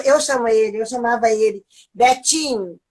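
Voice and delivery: normal talking voice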